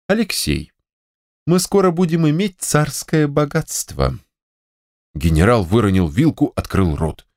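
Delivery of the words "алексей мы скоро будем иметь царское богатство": wife's voice, higher and mysterious; secretive wife. Acted. Wife to husband, mysteriously hinting at riches. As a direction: tease her husband with a secret.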